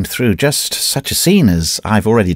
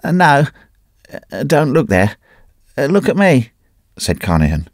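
put-on high, strained, half-mad old wanderer; a wrecked man clutching at his story; ragged Carnehan; 6 semitones higher than usual. A narrator's reading. Broken wanderer telling his old friend the tale, high and strained. Carnehan begs not to look.

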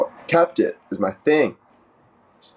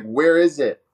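higher, mock-panicked question; comically alarmed, pitched up; mock freak-out; 5 semitones higher than usual. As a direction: play up the panic of a lost treasure. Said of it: "Freaking out. I'm like".

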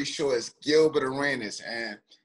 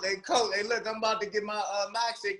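asking Coach; 5 semitones higher than usual. Retold or imitated. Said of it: "you tell Coach".

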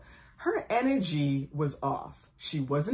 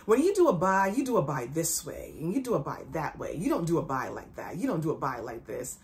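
micromanaging boss. Retold or imitated. Owner correcting Key on doing a buy, mock micromanaging. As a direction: lecture step by step, lightly mimicking a micromanager. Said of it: "she's micromanaging me and she's saying".

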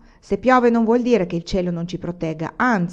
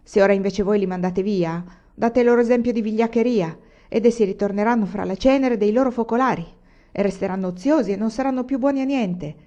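louder rallying cry to the bandits; shouting bandit; 2 semitones higher, 4 dB louder than usual. Acted. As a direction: rouse the men, shout it out. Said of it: "Allora Pilato Barras gridò". (grido del bandito ai compagni, a voce alta)

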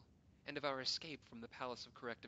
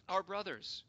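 urgent appeal; 8 semitones higher, 12 dB louder than usual. Acted. Pleading to the council.

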